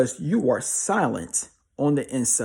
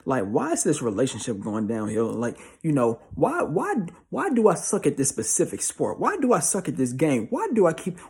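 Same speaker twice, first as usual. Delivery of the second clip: hammed-up despair over sport and game; exasperated whiner. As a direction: imitate someone asking life why, escalating. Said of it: "Here go, here go, just life in general".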